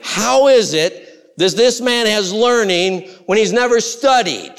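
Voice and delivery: a proud scholar scoffing at the untaught. Acted. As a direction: scoff with intellectual pride. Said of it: "Here's intellectual pride, unbelief".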